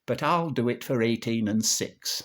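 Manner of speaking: rhythmic music-hall monologue delivery; comic verse recitation. Acted. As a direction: recite it like an old comic monologue, bouncing on the rhyme.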